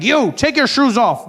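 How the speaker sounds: airport guard's order. Retold or imitated. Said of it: "They're like".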